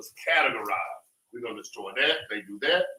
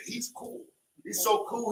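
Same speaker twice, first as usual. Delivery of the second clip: high mock imitation; 8 semitones higher than usual. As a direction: pitch jumps up high in mock praise. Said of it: "they don't even talk like that".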